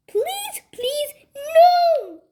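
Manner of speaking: high pleading building to a loud wail; shrieked plea. A narrator's reading. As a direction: beg in rising panic. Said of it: "shrieked Henry".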